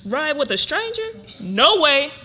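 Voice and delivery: amused disbelief, laughing out the no; laughing refusal. Acted. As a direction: laugh off the very idea.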